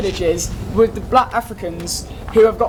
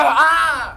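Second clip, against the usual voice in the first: raised mock "Ah" yell; mock scream; 4 semitones higher than usual. Describing game enemies to his friend, mock scream. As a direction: imitate a wordless scream. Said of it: "scream and go".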